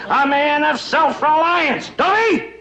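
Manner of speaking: building to a shout. Acted. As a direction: swell into a bellowing climax. Father's speech builds to shout.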